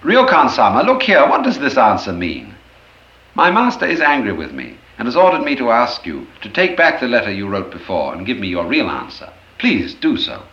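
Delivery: put-on boy calling out loudly to the absorbed priest. A narrator's reading. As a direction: call across the hermitage to get his attention. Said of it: "called out in a loud voice".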